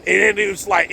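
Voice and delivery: usual speaking voice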